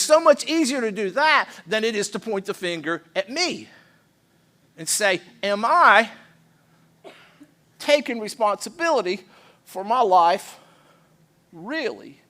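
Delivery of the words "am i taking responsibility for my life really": halting self-questioning. Shown as a demonstration. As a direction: put it to yourself piece by piece. Turns the question on himself.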